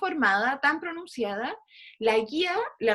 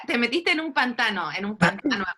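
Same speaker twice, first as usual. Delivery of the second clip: playful teasing. Real, not acted. Teacher ribbing a student stuck after a weak answer, playfully teasing. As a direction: tease them, stretching out the final words.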